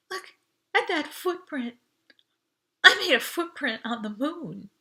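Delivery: high, teary, breaking with joy; choked up with happiness; voice cracking. A narrator's reading. Audrey tearfully showing her footprint, voice cracking. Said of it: "Her voice cracked".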